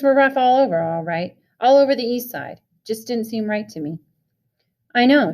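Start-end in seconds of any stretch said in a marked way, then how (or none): 4.9-5.3 louder, smiling good humour; friendly grinning agreement; good-natured grin. A narrator's reading. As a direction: say it with an easy grin. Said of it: "Two-Bit said with a good-natured grin".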